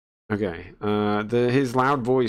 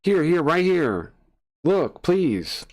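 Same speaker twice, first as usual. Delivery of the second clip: urgent pleading; 7 semitones higher, slower than usual. Acted. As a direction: beg them to look right now. Character urging them to look.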